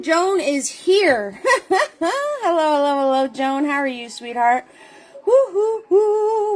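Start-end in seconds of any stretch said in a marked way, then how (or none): 0.0-3.3 laughing. Real, not acted. Laughing while greeting Joan. 5.3-6.5 cheering. Real, not acted. Cheering during roll call.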